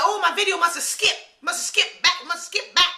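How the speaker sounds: playful mock surprise; mock disbelief. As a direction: pretend the video glitched. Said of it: "I said".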